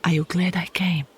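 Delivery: breathy, intimate whisper all the way; seductive whisper. Acted. Carmilla whispers her devotion to Laura, seductive and intimate. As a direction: draw her in close with each word.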